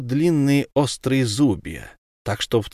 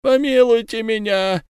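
high, slow, wailing plea from the trapped man; captured werewolf pleading with Ulenspiegel; 10 semitones higher, slower than usual. Acted. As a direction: beg for mercy from the trap, voice pitched up and drawn out. Trapped fisherman begging in pain.

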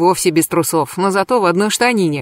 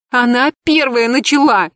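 higher, tearful protest; bawling; 5 semitones higher, 3 dB louder than usual. Acted. Narrator bawls her defence to Pashka. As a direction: cry it out louder. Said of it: "ещё громче заревела я".

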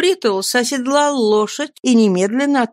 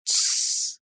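a sharp whispered hush; whispered shh; shushing; 8 dB quieter than usual. Acted. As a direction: hush him at once. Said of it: "ответила молодая девушка".

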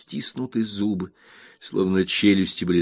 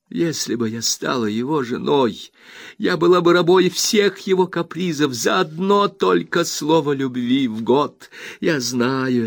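Rosa, furious; 6 semitones higher than usual. A narrator's reading. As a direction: hammer each word into the mother. Rosa to the mother. (Роза в ярости бросает обвинение матери)

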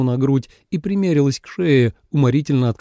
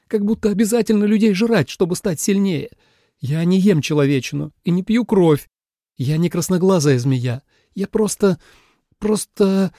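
indignant outburst; 6 semitones higher than usual. A narrator's reading. Обиженная Суэлань оправдывается.

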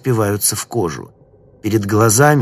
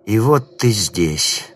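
eerie stranger voice; much slower than usual. Acted. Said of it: "раздаётся знакомый и незнакомый голос".

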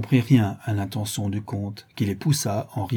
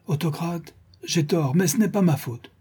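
grumpy; 6 semitones higher than usual. A narrator's reading. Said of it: "avec humeur".

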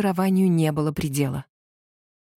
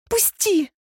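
a sudden squeal of "Пусти!", much higher; high piercing cry for help; 12 semitones higher than usual. Acted. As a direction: squeal it out the moment the hand slips. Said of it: "взвизгнула я".

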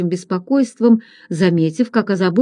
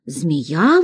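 plain reading voice

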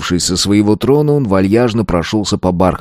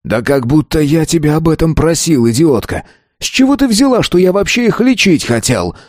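roaring rant; 7 semitones higher than usual. A narrator's reading. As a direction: bellow it at her. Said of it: "взревел он".

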